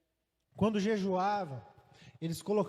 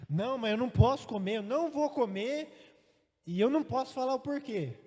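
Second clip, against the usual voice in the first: insistent son; 4 semitones higher than usual. Retold or imitated.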